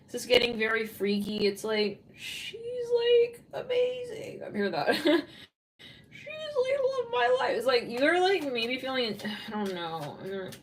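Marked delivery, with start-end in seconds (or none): 2.2-4.4 very high, lovestruck squeal; mock smitten gushing. Voicing someone smitten with a girl. 6.1-7.6 very high, lovestruck squeal; mock smitten gushing. Voicing someone smitten with a girl.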